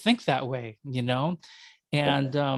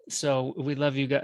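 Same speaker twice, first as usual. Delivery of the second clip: put-on light joking Minnesota accent. American telling Canadians of affection, light mock Minnesota accent. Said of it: "That's a Minnesota accent".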